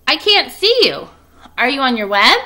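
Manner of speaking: little pig worried in the barn; anxious piglet. Acted. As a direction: call up into the dark, fretting. Wilbur calls anxiously for Charlotte.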